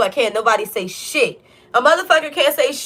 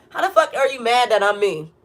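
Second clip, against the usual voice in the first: laughing disbelief. Real, not acted. Laughing at people mad that she is herself. Repeats question, now laughing.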